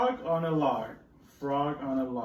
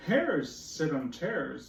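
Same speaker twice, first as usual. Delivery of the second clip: slow, drawn out; cat's rhyme again; much slower than usual. Acted. Teacher repeating cat's rhyme slowly. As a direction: draw it out for the kids. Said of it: "said the cat".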